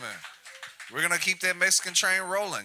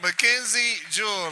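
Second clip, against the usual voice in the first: stage announcer. Acted. Host bringing comics on stage, announcer call. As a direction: announce the next act to the crowd.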